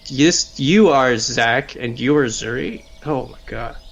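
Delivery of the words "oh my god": ordinary talk, nothing marked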